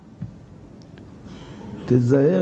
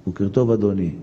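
polite greeting; 6 semitones lower than usual. Shown as a demonstration. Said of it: "עולה למונית".

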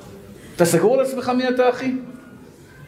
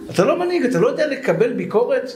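mock rebuke; 5 semitones higher than usual.

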